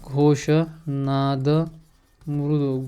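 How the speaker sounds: घोष नाद drawn out word by word, very slow; slow dictation. Shown as a demonstration. Teacher dictates घोष नाद slowly to students. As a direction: spell it out slowly for the class. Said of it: "teacher repeats answer slowly".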